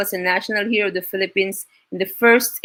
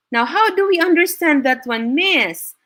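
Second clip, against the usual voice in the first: lightly voiced student, higher and quicker; student's question; 6 semitones higher than usual. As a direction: ask the teacher as a puzzled pupil, pitched up. Voices a student asking the teacher.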